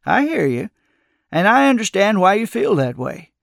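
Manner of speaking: understanding, lilting and unforced; soothing. A narrator's reading. Old man sympathizing with the narrator's doubts, soothingly. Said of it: "Joan said soothingly".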